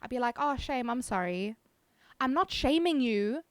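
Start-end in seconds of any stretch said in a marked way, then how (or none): 0.4-1.6 sympathetic "oh, shame"; pitying. Acted. Streamer consoling someone over lost sunglasses, pitying. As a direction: gently console someone over a small loss. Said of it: "I'm showing pity".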